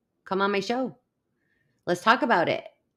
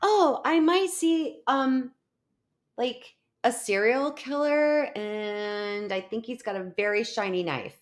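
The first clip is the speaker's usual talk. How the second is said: mock blithe curiosity; 4 semitones higher than usual. Streamer mimics Amber coolly spotting a killer, mock blithe. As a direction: imitate a friend casually musing, higher pitched. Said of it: "She's like".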